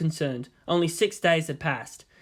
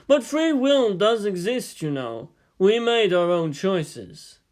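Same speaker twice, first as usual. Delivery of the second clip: slow, lightly raised easygoing voice; Yang's voice; 3 semitones higher, slower than usual. Acted. Yang telling Shinji free will exists, slow and easygoing. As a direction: lay it out slowly and gently.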